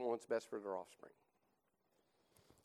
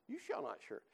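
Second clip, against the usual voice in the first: snake voice; 9 semitones higher, 5 dB quieter than usual. Acted. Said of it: "I'll forget the voice".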